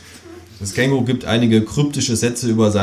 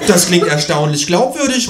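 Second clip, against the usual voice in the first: higher, lively call; raised-voice exclamation from a ghost; 10 semitones higher, 5 dB louder than usual. A narrator's reading. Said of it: "ruft das Gespenst".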